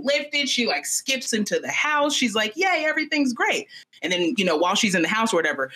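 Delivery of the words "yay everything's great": high-pitched mock cheer; gleeful little girl. Daughter skipping into the house after burying bones, gleeful. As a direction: imitate a carefree, relieved kid. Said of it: "she feels great".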